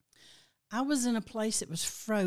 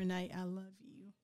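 tearing up; 7 dB quieter than usual. Real, not acted. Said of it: "you're still tearing up".

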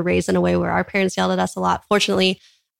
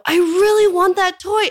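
put-on high, slow, loud whining child; drawn-out kid whine, pitched way up; whiny toddler; 11 semitones higher, 5 dB louder, slower than usual. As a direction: plead like a three-year-old who wants the toy. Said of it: "So a three-year-old might go".

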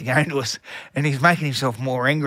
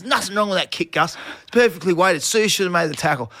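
firm talk-back; 5 semitones higher than usual. Retold or imitated. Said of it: "'cause I just had enough".

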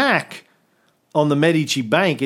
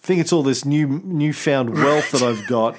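hammed-up sick groan, halting; faking sick. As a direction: play the gonfaloniere faking illness. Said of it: "he called in sick".

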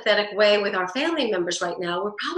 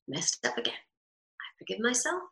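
gentle self-forgiveness; 7 dB quieter than usual. Shown as a demonstration. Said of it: "saying it out loud".

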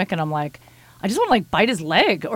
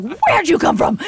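much higher, louder, laughing; excited baby talk; 10 semitones higher, 5 dB louder, slower than usual. Retold or imitated. Host coming home tipsy, greeting her cat in a high laughing squeal. Greeting pet after drinks.

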